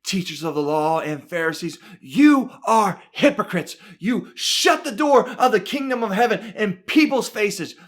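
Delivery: deliberate scolding, stressing each accusation; mildly heated telling-off of religious leaders; preacher voicing a stern confrontation; scolding rebuke. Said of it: "he is right up in their faces".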